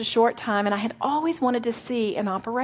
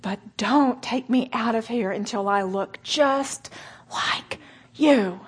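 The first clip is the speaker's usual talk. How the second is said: whispered prayer with a sob; tearful whisper; slower than usual. Retold or imitated. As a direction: breathe it out through tears. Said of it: "gritted teeth and many tears".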